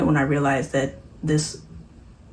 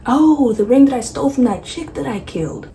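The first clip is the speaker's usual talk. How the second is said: a higher, louder offhand Chucky voice; careless Chucky; 7 semitones higher, 5 dB louder than usual. Retold or imitated. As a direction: toss it off like it's nothing. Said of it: "And he's like".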